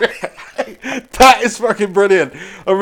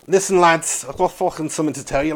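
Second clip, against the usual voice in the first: put-on Scouse, low and hurried; badly faked Scouse; mock Scouse accent; 5 semitones lower, 4 dB quieter than usual. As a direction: do a rough Liverpudlian accent. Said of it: "that accent was proper abysmal".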